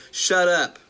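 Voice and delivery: a slow, mock-angry shove-off from the churchgoers; aggressive words. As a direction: lightly act out the irritated churchgoers telling the preacher to stop. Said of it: "very aggressive words".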